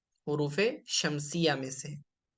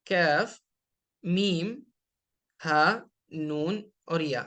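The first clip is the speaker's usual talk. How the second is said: each Arabic letter named separately, with a pause after each; reciting letter names; much slower than usual. Shown as a demonstration. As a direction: list the moon letters one by one. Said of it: "جو letters black colour میں". (حروف قمریہ کو ایک ایک کر کے گننا)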